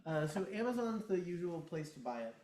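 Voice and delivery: speaking away from the microphone; off mic. Real, not acted. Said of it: "I gotta talk into the microphone".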